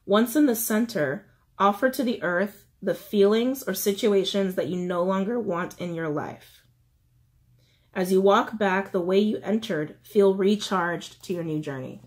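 measured, with pauses between steps; slow reading. Shown as a demonstration. Reiterating the steps for letting go, slow reading. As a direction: read it out unhurriedly, phrase by phrase. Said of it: "I'll try to read it slowly".

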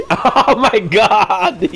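drawn-out oh my god, laughing through it. Real, not acted. Streamer laughing at chat's chips argument, drawn out and laughing. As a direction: stretch it slowly while cracking up.

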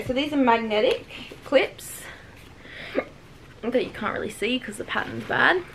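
talking through hiccups; hiccuping between words. Real, not acted. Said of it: "sorry about the hiccups".

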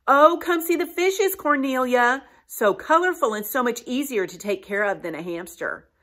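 put-on high, coaxing mother's voice pulling her child away; sweetly steer the child toward the fish; coaxing mama. Mother at the pet store luring her daughter to the fish, high and coaxing. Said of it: "Mama might say".

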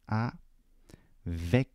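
avec broken in two, long gap after "a"; syllable by syllable. Shown as a demonstration. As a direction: say avec slowly as "a... vek". Spells it out while writing large.

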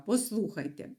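ordinary talk

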